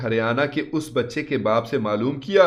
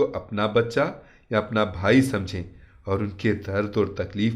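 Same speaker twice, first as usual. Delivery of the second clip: maulvi's calm words; 3 semitones lower than usual. Retold or imitated. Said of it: "उन्होंने मुझसे कहा".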